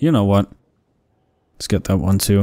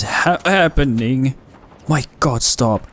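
startled high yelp of fright; scared horror game streamer; 4 semitones higher than usual. Real, not acted. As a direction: jump scare panic, voice jumps up. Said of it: "Oh, the jump scared me".

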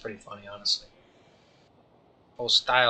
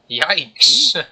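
startled yelp; 5 semitones higher, 11 dB louder than usual. Acted. Startled by man behind him.

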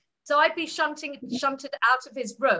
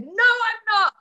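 sharp loud no, pitched high; retold shout; 7 semitones higher, 7 dB louder than usual. Alec shouting a denial at his admirer, loud and high. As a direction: snap it back as a loud denial. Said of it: "He shouted at me".

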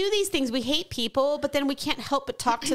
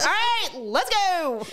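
non-English-speaking driver; 7 semitones higher, much slower than usual. Acted. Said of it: "who barely speaks English".

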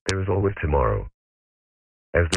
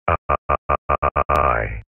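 glitching robot; 2 semitones lower than usual. Acted. Robot voice stuck in a loop.

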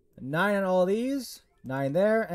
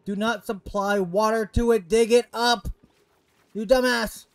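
louder and annoyed; annoyed yelling; 4 semitones higher, 5 dB louder than usual. Real, not acted. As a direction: bark orders at dumb colonists. Yelling at game colonists.

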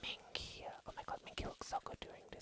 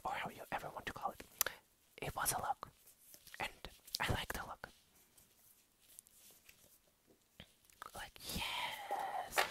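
hushed whispered unboxing chat; whispering. Real, not acted. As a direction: whisper it all to the viewer. Whispers through the whole unboxing.

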